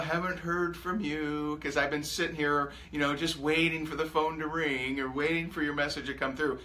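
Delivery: mock someone sitting by the phone waiting; mock needy texter. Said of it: "Don't say".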